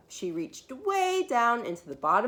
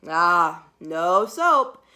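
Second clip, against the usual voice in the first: knowing mother; 2 semitones lower, 7 dB louder, much slower than usual. Acted. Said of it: "her mother smelled her hands and said".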